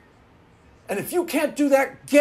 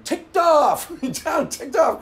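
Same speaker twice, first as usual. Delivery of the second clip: mock outburst then calming; 5 semitones higher, 5 dB louder, much slower than usual. Real, not acted.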